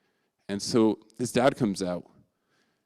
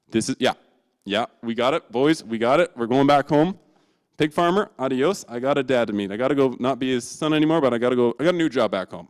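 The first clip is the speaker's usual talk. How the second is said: louder, pumped-up rallying; excited cheer; 3 semitones higher, 6 dB louder than usual. Acted. Son cheering as he leaves the pig farm, pumped up. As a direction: whoop it up to the boys.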